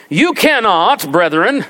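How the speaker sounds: mock a pro-slavery Southern pastor's accent. Preacher quoting a Southern pastor, put-on Southern accent. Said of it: "you gotta do it with a southern accent".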